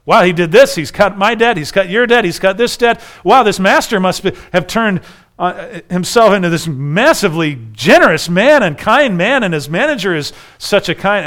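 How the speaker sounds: loud, excited street celebration; excited villagers. Acted. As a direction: cheer like the whole village just got rich.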